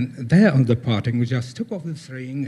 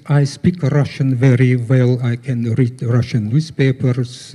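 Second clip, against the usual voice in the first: lightly imitated foreign accent, louder; mild mock foreign accent of a Russian learner; imitated accented Russian-learner speech; 5 dB louder than usual. Shown as a demonstration. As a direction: demonstrate a learner's accent, a little louder and evenly pitched. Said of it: "that's with accent".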